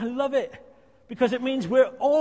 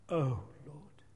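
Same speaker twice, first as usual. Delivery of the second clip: soft sigh of the heart; 6 semitones lower, 7 dB quieter than usual. Retold or imitated. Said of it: "does your heart whisper".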